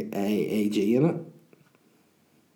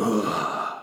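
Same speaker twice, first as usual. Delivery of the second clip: strained grunt; 2 semitones lower than usual. Retold or imitated. Comic teller mimics stranger in next cubicle, straining grunt. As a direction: groan like someone straining. Imitating man straining on toilet.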